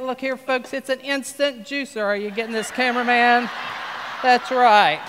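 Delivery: folksy TV pitchman selling hard; infomercial pitch. Acted. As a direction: pitch it like a late-night infomercial host.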